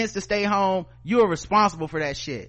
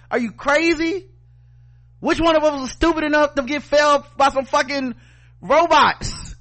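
heated rant, higher and climbing; real anger; 6 semitones higher than usual. Real, not acted. Host rants at people fooled by Russian bots, angry and higher. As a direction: let the frustration boil over at the fooled critics. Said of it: "I'm still mad about that shit".

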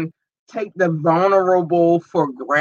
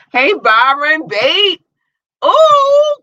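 delighted squeal to a commenter; excited greeting; 11 semitones higher, 6 dB louder, much slower than usual. Real, not acted. Greeting Byron again, thrilled.

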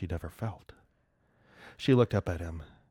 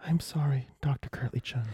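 whispered; 7 semitones higher than usual. Acted. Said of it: "she whispered".

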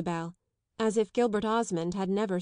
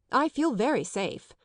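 raised, higher declaration; rather loud; 4 semitones higher, 3 dB louder than usual. Acted. Young man declares himself to an imagined audience, rather loudly. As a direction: announce it as if to a crowd. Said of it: "in rather a loud voice".

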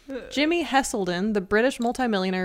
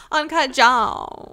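mocking drawl; much slower than usual. Mocking the phrase.

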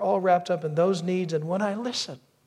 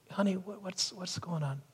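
tender asking; 2 semitones higher, 8 dB quieter than usual. Acted. Voices himself gently asking his wife.

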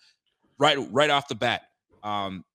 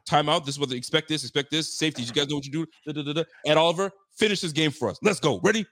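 coach pep talk; 3 semitones higher, faster than usual. Retold or imitated. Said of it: "a coach that brings you in and says".

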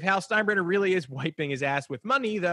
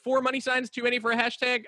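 mock pondering; 9 semitones higher than usual. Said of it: "looking at Jim Bowden's Twitter going".

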